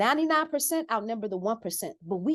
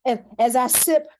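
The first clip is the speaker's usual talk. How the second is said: mock-posh; 4 semitones higher, 6 dB louder than usual. Mock-posh brag about champagne.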